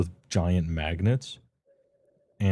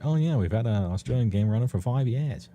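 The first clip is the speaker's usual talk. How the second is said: imitating a light Aussie accent, a bit higher; a hint of an Australian accent, slightly raised pitch; 4 semitones higher than usual. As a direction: quote your friend in a mock Australian accent. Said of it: "needed to sound like he had an Aussie accent".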